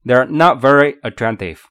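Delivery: "not" and "attractive" weighted, "They're" light; summing-up model with "not" standing out; stress on not and attractive. Shown as a demonstration. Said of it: "attractive重读".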